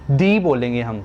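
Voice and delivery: दी said "thee" with long ee. Shown as a demonstration. Teacher shows the vowel rule. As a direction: hold the ee in दी. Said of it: "दी बोलना है".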